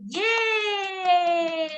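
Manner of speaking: long, stretched-out yay; excited cheer. Pretend. Teacher cheering the children for finding a squirrel, excited cheer. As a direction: cheer it and hold the vowel.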